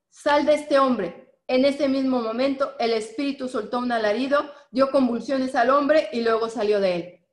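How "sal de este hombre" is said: slow, louder command, each word set down firmly; commanding order. Acted. Preacher reading Jesus commanding the spirit to leave, slow and firm. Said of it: "le ordenó".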